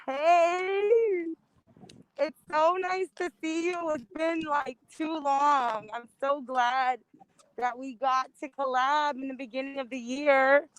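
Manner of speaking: talking through a fencing mask; muffled by a mask. Real, not acted. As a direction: voice muffled behind a face mask. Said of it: "with this mask".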